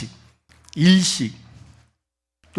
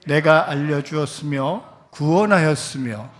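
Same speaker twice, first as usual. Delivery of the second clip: scripture reading. Acted. Preacher leading the congregation in reading, solemn.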